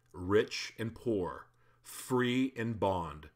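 measured Bible reading, slowing on the lists; scripture reading. Acted. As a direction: read the verse with solemn weight. Reads scripture.

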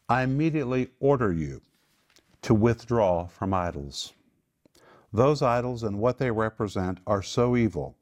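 firm order in measured phrases; urgent, insistent apostolic warning; emphatic command. Acted. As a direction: lay down the command with authority. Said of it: "That's how emphatic it is in the Greek".

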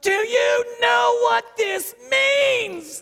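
high, slow, stretched-out mom yell; angry, really loud. Retold or imitated. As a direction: scream each word as the furious mother. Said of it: "they get really loud".

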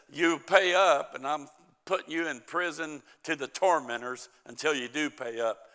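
mock angry demand. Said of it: "grabs him by the throat".

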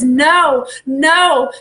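loud, forceful refusal; firm command. Acted. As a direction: voice God's firm "no". His voice says.

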